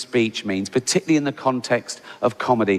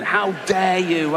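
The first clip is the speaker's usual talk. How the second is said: mock outrage; 5 semitones higher, slower than usual. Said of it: "one person going".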